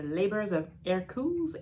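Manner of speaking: book title in a put-on English accent. Shown as a demonstration. Vlogger showing off her English accent to viewers, put-on English. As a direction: say Labours of Hercules with an English accent. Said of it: "vous vous souvenez de mon super accent".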